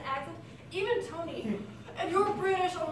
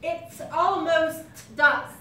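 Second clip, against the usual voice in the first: put-on British accent; slower than usual. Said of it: "putting your sound to the front".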